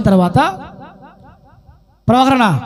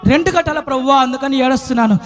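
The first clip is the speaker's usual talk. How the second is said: mock weeping answer; faster than usual.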